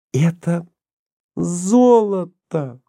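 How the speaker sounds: high, very drawn-out ЗОЛОТО in wonder; awed delight. A narrator's reading. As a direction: marvel at the find, stretching the word slowly. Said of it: "прошептала она, восхищённая своей находкой". (восхищённо, заворожённо)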